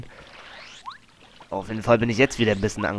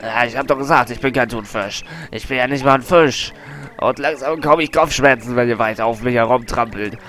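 pained whale; 5 dB louder than usual. Acted. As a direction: moan like a huge animal with a bellyache. Whale in pain, Colorado.

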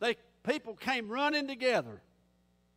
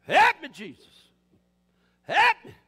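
high, very loud cries for help; desperate full-voiced rescue call; drowning man's holler; 4 semitones higher, 12 dB louder, slower than usual. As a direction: shout as if going under. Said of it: "are you drowning?".

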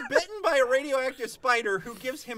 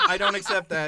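higher, laughing disbelief; 8 semitones higher, 5 dB louder than usual. Real, not acted. Friends laughing at silly comic lore, high laughing.

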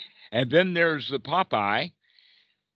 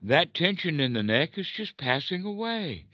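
light relief; 6 semitones higher than usual. Retold or imitated. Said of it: "we could say".

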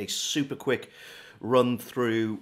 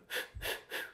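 tense breath; 10 dB quieter than usual. Shown as a demonstration. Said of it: "you don't want anything like that".

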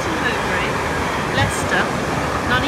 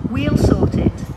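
punchy, louder slogan line; loud announcement; 4 semitones higher, 10 dB louder than usual. Acted. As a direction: belt out the slogan. Security slogan on PA.

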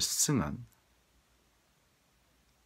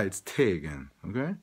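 whisper. Real, not acted. Warning the viewers in a whisper. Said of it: "This is a little warning".

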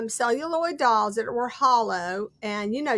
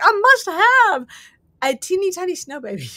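mock craving; 6 semitones higher, 6 dB louder than usual. Collector quoting herself on a find, mock desperation.

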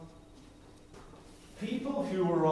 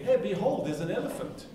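mock archaic call; 6 semitones higher than usual. Shown as a demonstration. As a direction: make "behold" sound grand and odd. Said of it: "Ria's not gonna get".

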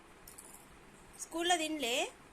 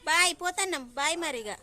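mock goodbye; 5 dB louder than usual. Pretending to leave without her.

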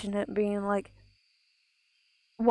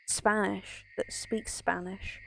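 whispered aside; 5 dB quieter than usual. Real, not acted. Quick whispered aside mid-sentence.

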